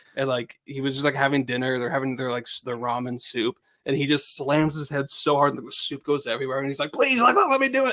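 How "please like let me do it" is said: very high-pitched, desperate begging. Retelling a movie scene where a character begs everybody: imitating a character begging. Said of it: "begging everybody towards the third act".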